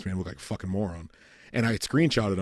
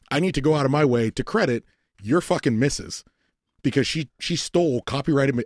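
louder, faster exasperated rant; heated rant, raised voice; worked-up rant; 3 semitones higher, 3 dB louder than usual. Retold or imitated. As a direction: vent at him as if you're fed up. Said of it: "now I'm mad".

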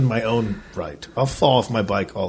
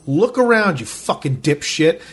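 raised pitch, exasperated retort; retold angry comeback; 4 semitones higher than usual. Arguing with the man behind him, mock angry. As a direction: swear back at him, slowing on the insult.

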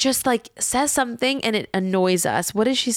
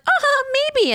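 sarcastic uh-huh. Retold or imitated. Sarcastic reply voiced.

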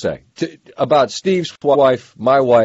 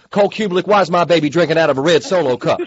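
Southern wife impression; faster than usual. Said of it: "a Southern accent while doing an imitation of your wife's voice".

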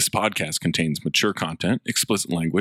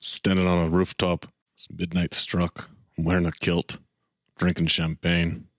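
put-on Scottish accent; 3 semitones lower than usual. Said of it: "see if it turns Australian".

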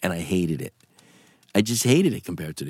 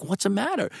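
retold concern; 9 semitones higher than usual. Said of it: "felt sorry for me".

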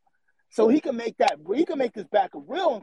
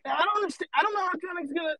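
incredulous outburst; 8 semitones higher, faster than usual. Real, not acted. Incredulous rant about threat.

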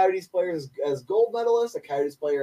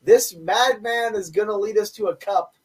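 defiant; 5 semitones higher than usual. Real, not acted. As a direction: stake your claim on the coach. Defiant defence of coach.

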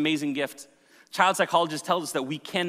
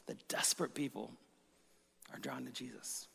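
slow dictation; 12 dB quieter than usual. Shown as a demonstration. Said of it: "If you're taking notes".

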